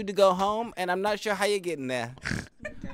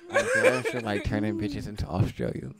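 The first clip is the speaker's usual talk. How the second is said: laughing; 8 semitones lower than usual. Acted. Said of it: "That shit right there".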